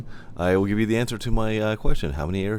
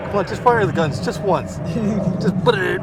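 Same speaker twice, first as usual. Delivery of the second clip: excited; 10 semitones higher, 6 dB louder than usual. Real, not acted. Urging the jet to fire.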